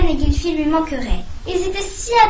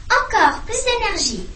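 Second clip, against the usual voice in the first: urging on; 7 semitones higher than usual. Acted. Teacher urges owlet on.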